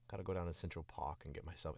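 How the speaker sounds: attempted New York accent, edging toward Boston; New York accent with "Park" as "Pahk". Shown as a demonstration. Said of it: "almost trip it with a Boston accent".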